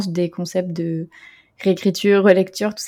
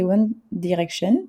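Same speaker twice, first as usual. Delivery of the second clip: mock English accent; 4 dB quieter, slower than usual. Shown as a demonstration. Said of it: "toujours avec mon super accent anglais".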